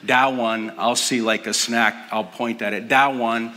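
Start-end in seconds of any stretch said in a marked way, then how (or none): 0.0-0.7 "That one" said as "dah-wun"; toddler pronunciation. Retold or imitated. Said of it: "but it comes out as". 2.9-3.5 "That one" said as "dah-wun"; toddler pronunciation. Retold or imitated. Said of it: "it kinda goes like that".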